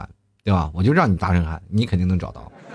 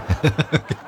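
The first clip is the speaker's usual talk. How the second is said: real laugh; 5 semitones higher than usual. Real, not acted. Laughs at his own joke.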